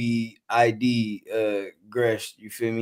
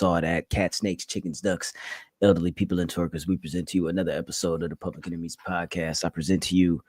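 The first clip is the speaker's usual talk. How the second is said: mock-grand announcer roll call, a little lower; podcast host intro; 5 semitones lower than usual. Host greeting listeners to the Public Enemies Podcast, announcer intro. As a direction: introduce the show like an emcee, listing the whole audience.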